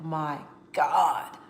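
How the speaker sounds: hushed, breathless "My God"; stunned whisper, almost no voice; shocked whisper. Retold or imitated. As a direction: whisper it in disbelief. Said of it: "I was like".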